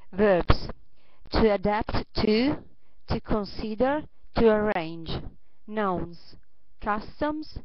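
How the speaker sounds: careful list reading, each item set apart; vocabulary read-aloud. Acted. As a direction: read each word out to the class with pauses.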